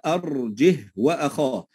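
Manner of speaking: أرجه ends on a still 'h', slow recitation; silent-vowel ha. Shown as a demonstration. Teacher demonstrates the Quranic rule, أرجه with unlengthened h. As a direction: say أرجه with a vowelless h, straight into وأخاه. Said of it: "أنها تنطق هاء ساكنة فقط".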